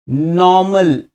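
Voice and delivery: नॉर्मल drawn out with no r, "naw-mul"; model pronunciation. Shown as a demonstration. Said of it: "बोलिए मेरे साथ".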